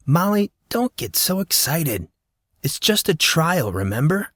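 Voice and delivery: put-on a teen talking her down; teen boy. Monson calming Molly.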